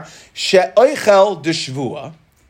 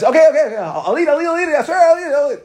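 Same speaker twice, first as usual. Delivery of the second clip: higher, exasperated okay-okay surrender; giving in; 9 semitones higher, faster than usual. Retold or imitated. Guest pestered at the Kiddush gives in, mock exasperated. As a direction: cave in and swear you'll eat.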